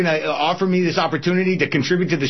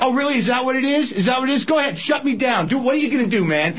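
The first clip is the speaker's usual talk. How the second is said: higher, heated taunting; angry taunt; 5 semitones higher, faster than usual. Acted. Host taunts executive to shut him down, higher and heated. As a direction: goad him to shut you down.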